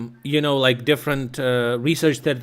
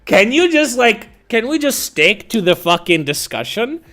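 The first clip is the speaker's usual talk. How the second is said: much higher and louder, strained exasperation; exasperated; 8 semitones higher, 4 dB louder than usual. Retold or imitated. Begging her to stick to the discussion, strained exasperated plea. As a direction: plead with her to drop it, fed up.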